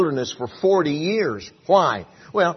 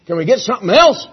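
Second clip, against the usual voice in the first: high, loud, nagging whine; whiny murmuring Israelites; 11 semitones higher, 9 dB louder than usual. Acted. Israelites in the wilderness nagging Moses, high loud whining. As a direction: whine at Moses like spoiled complainers.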